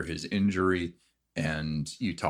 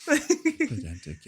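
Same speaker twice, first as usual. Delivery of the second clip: high, slow laughing repeat; laughing squeak; 3 dB louder, much slower than usual. Acted. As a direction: squeal the word through a laugh.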